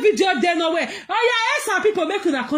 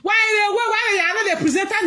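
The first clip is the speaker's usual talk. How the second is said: mocking complaint; 5 semitones higher than usual.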